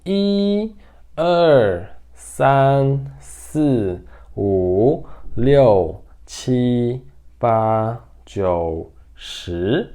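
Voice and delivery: one drawn-out syllable at a time; careful, spaced-out teaching count; slow count. Shown as a demonstration. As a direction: count slowly with a gap after each number. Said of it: "De forma mais rápida agora".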